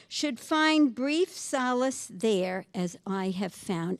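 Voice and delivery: measured, unhurried reading of the closing line; slow poem reading. Acted. Teacher reads Wordsworth's closing line to the class, slowly. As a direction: read the line out slowly, savouring it.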